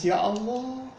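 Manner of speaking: a mother's voice that breaks into a high, grieving cry to God; tearful lament. Acted. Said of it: "dengan menangis". (ibu pulang sambil menangis, meratap lirih kepada Allah)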